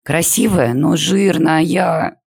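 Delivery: high, drawn-out, on the verge of tears; girl near tears over her weight; almost crying. A narrator's reading. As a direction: wail it as the tears come. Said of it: "чуть не заплакала Полина".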